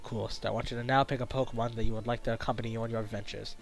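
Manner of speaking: low, soft professor voice; hushed, measured introduction as a professor; kindly professor. Acted. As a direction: welcome the newcomer quietly, in a low register.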